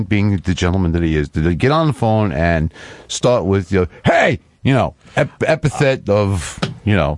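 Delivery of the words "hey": sudden high shouted greeting; loud hey. Retold or imitated. Imitating caller's loud greeting.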